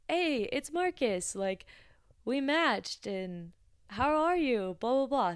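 high, loud, eager hello; excited guy greeting. Retold or imitated. Match from the dating site greets the barista excitedly. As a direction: bounce in with a keen greeting.

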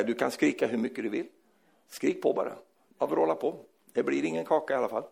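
low, softly spoken parental firmness; unmoved parent. Acted. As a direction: stay quietly firm with a screaming child. Unmoved parent answering screaming child. (lugn, orubblig förälder)

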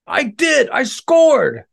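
high, loud joyful cry; excited. Acted. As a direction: burst out in delight. Dinosaur finally scores.

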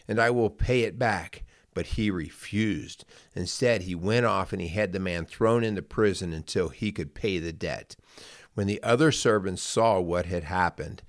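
measured, careful Bible reading aloud; scripture reading. Acted. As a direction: read the parable to listeners at an even pace. Reads Bible parable aloud.

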